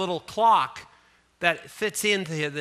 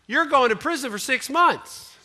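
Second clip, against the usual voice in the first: stern judge; 7 semitones higher, 5 dB louder than usual. Retold or imitated. Judge sentencing the yawner.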